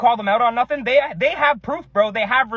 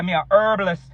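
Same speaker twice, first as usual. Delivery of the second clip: put-on Jamaican accent; 3 semitones lower than usual. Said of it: "Back in Jamaica".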